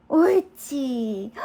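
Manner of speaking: slow drawn-out praise; talking to a dog. Real, not acted. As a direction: stretch the praise out. Praising pet slowly.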